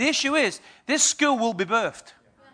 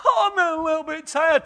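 tired mother; 6 semitones higher than usual. Acted. Mother in labour acted.

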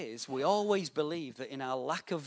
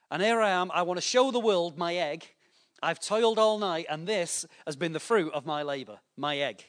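proud hen; 3 semitones higher, 6 dB louder than usual. Acted. Preacher acting proud hen with egg.

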